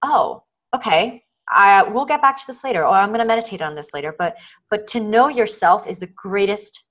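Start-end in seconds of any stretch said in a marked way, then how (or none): 0.0-4.2 kind acceptance. Retold or imitated. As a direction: reassure yourself with no judgment. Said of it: "being like".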